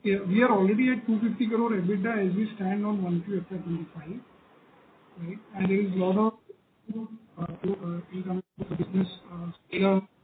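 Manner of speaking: muffled, as through a covered mouth. Real, not acted. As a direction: hand over mouth, dull and muffled. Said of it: "you're sounding muffled again".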